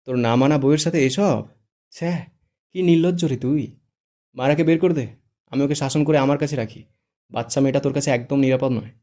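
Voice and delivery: high, loud mock scandal; theatrical disgust; wide-eyed shock. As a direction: scold him in hammed-up outrage. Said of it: "চোখ বড় বড় করে বলে".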